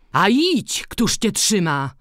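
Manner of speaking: a priest's impetuous rebuke; impetuous retort. A narrator's reading. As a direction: fling the words back hotly. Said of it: "rzucił porywczo ksiądz".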